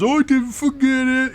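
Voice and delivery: high-pitched defensive reply; protesting character. Acted. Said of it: "And he goes".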